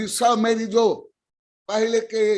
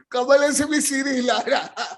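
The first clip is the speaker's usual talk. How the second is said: higher-pitched, talking through laughter; amused, words riding on a laugh; 5 semitones higher than usual. Real, not acted. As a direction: keep chuckling as you speak. Laughing at listeners' reactions.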